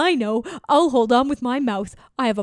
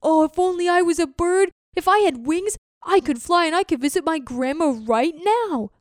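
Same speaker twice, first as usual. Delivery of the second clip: higher and louder, marvelling at the birds; excited turtle; 5 semitones higher, 3 dB louder than usual. Acted. Turtle watching birds overhead, awed and longing. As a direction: gaze up in awe and longing.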